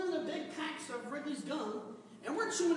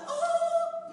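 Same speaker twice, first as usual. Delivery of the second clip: high, loud, hammed-up wow; mock awe; 10 dB louder than usual. Groom mocking the kiss moment, hammed-up wow. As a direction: belt out a fake gasp of wonder.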